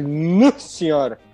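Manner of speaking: put-on slow, light Espírito Santo accent; a hint of a drawn-out Espírito Santo accent. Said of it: "Já o capixaba é aquele".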